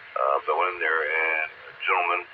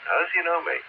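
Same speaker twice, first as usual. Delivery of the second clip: raised, puzzled self-question; puzzled inner thought; 12 semitones higher than usual. Retold or imitated. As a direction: wonder aloud who he is. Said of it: "I kept thinking to myself".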